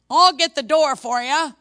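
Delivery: hammed-up sweet brush-off; pointed dismissal. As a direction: pointedly show the woman the door. Secretary showing visitor out.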